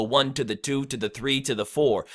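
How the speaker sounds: "one", "two", "three", "four" stressed, "to the" tucked lightly between; rhythmic on-beat count. Shown as a demonstration. Coach demonstrates staying in the pocket, numbers stressed on the beat. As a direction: bounce through "to the", landing on each number. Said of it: "put unstressed syllables in between".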